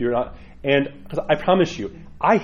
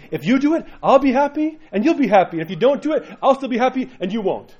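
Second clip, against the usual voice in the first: much higher, playful mock priest voice; wry priest; 10 semitones higher, 4 dB louder than usual. Pastor voices the Russian priest's wry closing, higher. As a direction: deliver the punchline with a wink. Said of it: "And he ends by saying".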